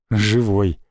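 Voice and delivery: a low, strained «Живой» that falls at the end; a wounded man forcing a reply; weak answer. A narrator's reading. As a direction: push out «Живой» through burned lips. Burned man answers weakly.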